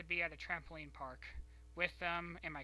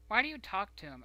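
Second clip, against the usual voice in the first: louder, higher, demanding why; grandma's sharp question; 4 semitones higher, 9 dB louder than usual. Retold or imitated. Grandma interrogating her grandchild, loud and demanding. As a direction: grill the grandchild about the boyfriend. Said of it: "and she's like".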